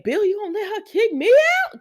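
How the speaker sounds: high, loud, laughing through the line; can barely get the quote out for giggling. Retold or imitated. Vlogger retelling a soap scene, laughing hard. Quoting Brooke, cracking up.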